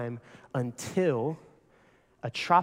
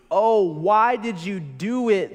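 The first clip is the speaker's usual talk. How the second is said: slow, higher, louder dismay; groaning; 4 semitones higher, 4 dB louder, slower than usual. Acted. Terrified sailors groaning at Jonah, slow and dismayed. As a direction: moan it in despair. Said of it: "they groaned".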